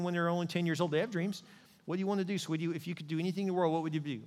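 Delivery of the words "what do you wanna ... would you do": put-on softer voice for a child; tender parent. Parent asks their little child about dreams, tender. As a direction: coax a ten-year-old gently.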